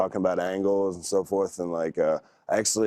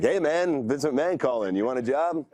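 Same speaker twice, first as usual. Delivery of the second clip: much higher, hammed-up prank-call voice; higher, goofy mock boss offer; mock buddy prank; 7 semitones higher than usual. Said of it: "one of my buddies going like".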